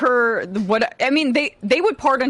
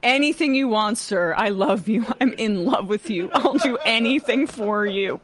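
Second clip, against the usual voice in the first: simpering; 3 semitones higher than usual. Retold or imitated. Mocking a lovesick Blanche.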